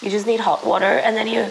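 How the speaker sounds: hoarse voice cracking while sick; the voice breaks and fades mid-sentence; real sore throat, voice failing; voice giving out. Real, not acted. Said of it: "where is my voice going?".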